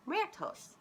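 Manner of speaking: second careful try at "Muertos"; retrying a word. Shown as a demonstration. Reader retries "Muertos" for the children, sounding it out. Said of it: "Am I saying that right?".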